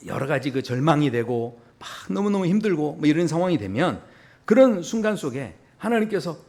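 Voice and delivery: ordinary delivery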